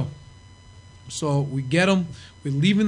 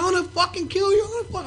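enraged threat; 13 semitones higher than usual. Retold or imitated. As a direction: threaten him at full rage. Sandman chasing on highway.

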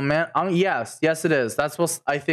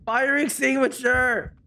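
drawn-out theatrical lament; mock grief; slower than usual. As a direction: cry out as if bereaved, overacting. Mourning the fire extinguisher.

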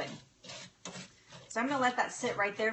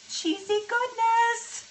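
high, loud, drawn-out delight; gushing; 13 semitones higher, 5 dB louder, much slower than usual. Real, not acted. Cook showing off the cheesy bottom, gushing. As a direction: sing it out slowly, high and loud.

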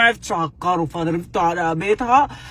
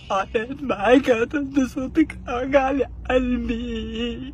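mock weeping; 3 semitones higher, 6 dB quieter, slower than usual.

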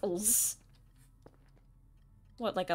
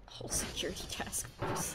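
whisper; 2 semitones lower, 4 dB quieter than usual. Real, not acted. Muttered aside while playing.

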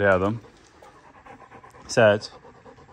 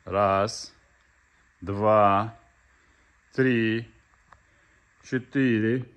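building excitement; 3 semitones higher, slower than usual. Real, not acted. Counting for the dog's search.

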